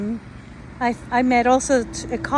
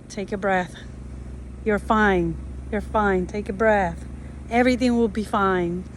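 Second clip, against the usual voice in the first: lower, calming self-talk; self-reassurance; 3 semitones lower than usual. Retold or imitated. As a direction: talk yourself down gently, in a lower voice. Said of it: "I said to myself".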